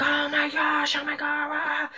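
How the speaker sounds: high, softening gasp of awe; stunned amazement. Retold or imitated. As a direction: let the words fall away in wonder. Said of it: "we were like".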